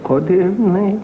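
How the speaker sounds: a cheery, strange host with a rising hello; innkeeper's greeting. Acted. Innkeeper welcomes the traveler, high quirky voice. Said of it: "I said".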